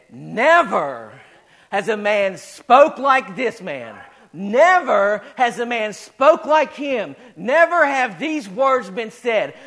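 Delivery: slow, drawn-out "Never has a man spoke", punched hard; retold amazement, each key word stretched and stressed; emphatic proclamation. Officers report back to the priests about Jesus, slow emphatic proclamation.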